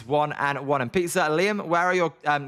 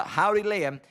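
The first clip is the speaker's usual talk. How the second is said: put-on half-hearted cowboy accent. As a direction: greet viewers in a badly faked cowboy accent. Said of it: "I can't, I can't do accents".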